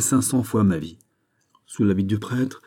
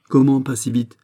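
higher, louder echoing question; indignant surprise; 5 semitones higher, 5 dB louder than usual. Acted. Fouquet challenges Aramis's reassurance, indignantly surprised. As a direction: throw the phrase back, taken aback.

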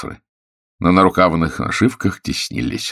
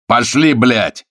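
put-on drunken roar; 7 semitones higher, 5 dB louder, much slower than usual. A narrator's reading. Drunk officer swings at Tanya.

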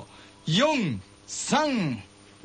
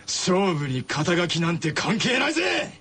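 shouting; 4 semitones lower, slower than usual. Acted. Declaring the showdown.

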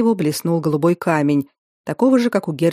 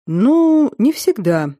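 drawling; 5 semitones higher, much slower than usual. Acted. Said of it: "протянул герцог".

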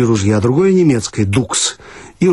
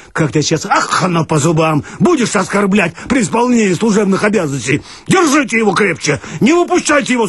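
angry threat; 6 semitones higher than usual. Acted. Watchman threatening the rider.

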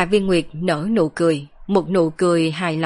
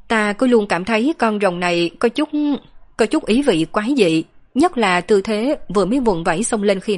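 lightly voiced girl, hesitant and searching; puzzled girl character; 3 semitones higher than usual. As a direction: lightly play a girl puzzling out an odd impression. Narrator voices a young woman character. (giọng cô gái hơi băn khoăn, ngập ngừng)

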